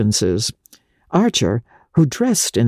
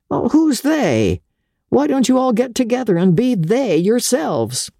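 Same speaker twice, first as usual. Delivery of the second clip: lightly voiced Winsett, higher and pressing; urging Winsett; 9 semitones higher than usual. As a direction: push him toward politics, pitched up. Winsett challenges Archer.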